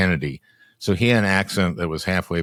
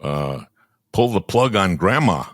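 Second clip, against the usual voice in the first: light Grassley impression, slightly raised; Chuck Grassley impression. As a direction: lightly mimic an elderly Iowa senator. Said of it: "That's Grassley".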